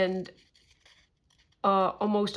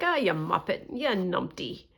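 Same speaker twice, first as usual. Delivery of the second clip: gentle teasing. Retold or imitated. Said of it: "a very gentle, teasing word".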